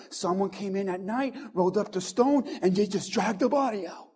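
conspiratorial hush. Retold or imitated. Pastor voicing Mary imagining thieves, hushed. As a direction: murmur it like a wild theory. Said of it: "making up her own scenario".

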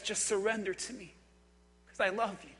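low, gentle plea; voice of God. Acted. Preacher voices God asking for surrender, soft and tender. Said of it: "The voice of God says".

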